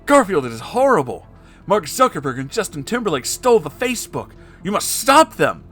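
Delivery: high, loud desperate plea; desperate cry. A narrator's reading. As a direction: beg for help in a frantic rush. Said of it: "with tears of desperation".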